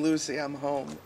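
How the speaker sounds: put-on light Cuban accent in the style of a classic sitcom star; a hint of a Cuban sitcom husband. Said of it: "the Spanish accent".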